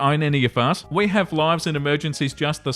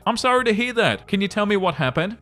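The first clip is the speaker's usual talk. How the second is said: higher, sincere customer-service concern; sincerely concerned; 6 semitones higher than usual. Retold or imitated. Retail manager to complaining caller, sincerely concerned. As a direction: sound genuinely worried for her, pitched up. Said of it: "Me, sincerely concerned".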